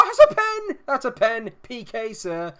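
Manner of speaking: excited shout. Real, not acted. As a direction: leap up shouting for the penalty. Penalty given in game.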